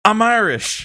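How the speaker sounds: imitated offhand comeback; Joe Biden. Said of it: "turns around and he goes".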